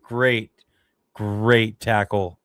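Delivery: drawn-out, admiring "great tackle"; emphatic praise. Real, not acted. Reacting to a big tackle.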